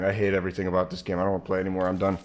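stuffy, blocked-nose voice; sick and congested, tired. Real, not acted. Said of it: "I'm too sick for this".

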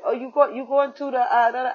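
high, mumbled mock Asian accent; imitated Asian accent. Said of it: "His accent was way too thick".

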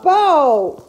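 loud startled call; startled shout. Real, not acted. Owner cries out after being startled, loud. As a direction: yelp the name in fright.

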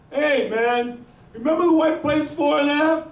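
high, eager calling voice; imitated excited fan. Stranger reminding the guitarist of the gig, excited. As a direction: gush it high, as if reminding an idol.

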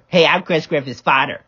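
lightly exaggerated copycat voice; mocking mimicry. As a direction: parrot the introduction back mockingly. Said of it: "I don't even sound like that".

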